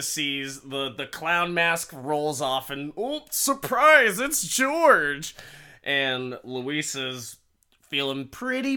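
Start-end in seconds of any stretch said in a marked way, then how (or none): 3.0-5.3 high, loud ta-da reveal; exaggerated singsong astonishment; mock surprise. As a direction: announce a fake shock twist. Mock reveal of unmasked husband.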